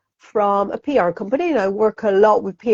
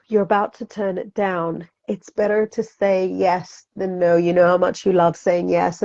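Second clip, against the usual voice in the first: gentle wisdom voice; 3 semitones lower, 4 dB quieter than usual. Retold or imitated. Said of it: "your higher wisdom voice will say to you".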